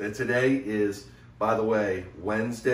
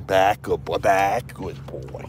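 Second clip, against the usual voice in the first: "Back" called loud and firm; dog command; 4 dB louder, slower than usual. Real, not acted. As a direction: order the dogs back, firm. Commanding the dogs.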